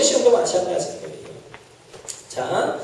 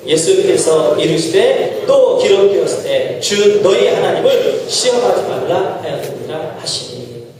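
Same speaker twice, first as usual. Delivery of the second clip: slow, lower unison reading; scripture reading; 3 semitones lower than usual. Acted. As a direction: read the verse together, measured. Congregation reads scripture aloud.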